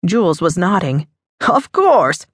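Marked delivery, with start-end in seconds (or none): 1.5-2.3 light up as you place him; glad recognition. A narrator's reading. Jules recognizes guest, pleased.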